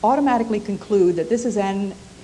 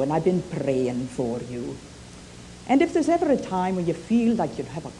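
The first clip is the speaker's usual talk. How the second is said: put-on Scottish accent. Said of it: "in her wonderful Scottish accent".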